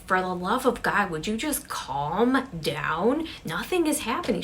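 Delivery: mild acted yell, leaning hard on each phrase; exasperated yelling. Sally scolding frightened Sarah, exasperated half-yell. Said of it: "yelling at Sarah".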